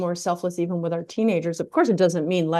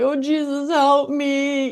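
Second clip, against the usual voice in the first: desperate silent plea; 8 semitones higher, 5 dB louder, much slower than usual. Retold or imitated. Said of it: "inside you're screaming and you're crying".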